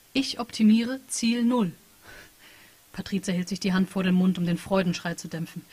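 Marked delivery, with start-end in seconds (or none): 0.1-1.7 AI chat program. Acted. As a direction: read it like an emotionless program reporting data. AI program answers. (leicht angedeutete Maschinenstimme, sachlich und gefühllos)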